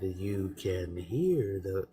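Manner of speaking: very slow, low soothing radio voice; slow it down like a bedtime radio host; calm radio host. Retold or imitated. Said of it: "the man spoke like this".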